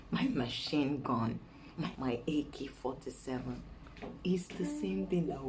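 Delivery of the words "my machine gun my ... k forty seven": soothing. Retold or imitated. Husband still coaxing his angry wife, soothing. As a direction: gently coax with pet names. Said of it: "when he sees I'm angry".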